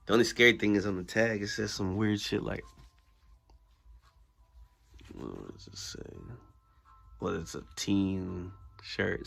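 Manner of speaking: talking around a toothbrush; while brushing teeth. Real, not acted. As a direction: speak with a toothbrush in mouth. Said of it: "I'm brushing my teeth this morning".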